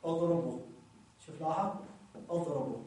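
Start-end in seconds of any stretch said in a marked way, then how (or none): 0.1-0.6 اضربوا ends on long u, no n; pausal form, waw restored. Shown as a demonstration. Teacher shows stopping on the verb, long waw restored. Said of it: "أو نقول حالة الوقف". 2.3-2.8 اضربوا ends on long u, no n; pausal form, waw restored. Shown as a demonstration. Teacher shows stopping on the verb, long waw restored. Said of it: "في حالة الوقف".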